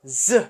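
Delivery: "Z" said as a buzzing "zh"; teacher sounding out a letter; Russian letter sound. Shown as a demonstration. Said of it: "when you have to pronounce this".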